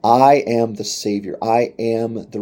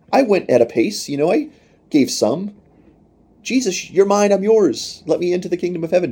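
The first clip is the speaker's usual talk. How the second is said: mock pleading voice, much higher and louder; pleading believer; 9 semitones higher, 4 dB louder than usual. A lukewarm believer begging Jesus at heaven's gate, in a high mock plea. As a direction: whine your excuses at the gate like a hammed-up lukewarm Christian. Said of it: "If you try to say".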